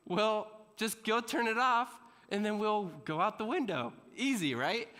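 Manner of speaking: pushy friend voice. Retold or imitated. Friends pressuring him.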